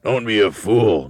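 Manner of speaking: loud, slow scornful husband; Mister Twit. A narrator's reading. Husband scoffing at his wife's idea, loud scornful voice. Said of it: "Mister Twit said".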